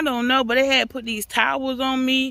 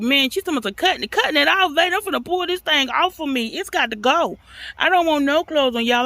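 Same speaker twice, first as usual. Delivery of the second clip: high and fast; excited outburst; 5 semitones higher, faster than usual. Real, not acted. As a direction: rush it out, worked up.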